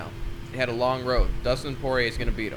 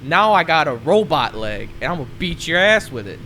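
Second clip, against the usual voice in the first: mock trash talk; 3 semitones higher, 5 dB louder than usual. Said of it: "I'll be like".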